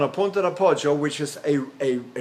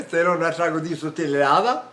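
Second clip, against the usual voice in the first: placed foreign phrase. Shown as a demonstration. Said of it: "You can speak any language there".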